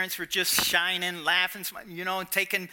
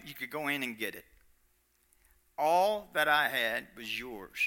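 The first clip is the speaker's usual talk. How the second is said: father's open-handed voice; 5 semitones higher than usual. Acted. The father telling his son everything was his. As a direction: offer it all freely as the father. Preacher voicing the father's generosity.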